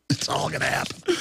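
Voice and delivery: whispered ominous aside; hushed foreboding whisper. Real, not acted. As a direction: whisper it like a dark secret. Ominous aside after laugh.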